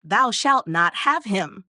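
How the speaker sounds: slow, loud gruff call from behind the altar; a clerk's slow, gruff warning; gruff cry. Acted. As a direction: boom it out slowly, gruff and stern. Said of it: "cried out in a very gruff voice".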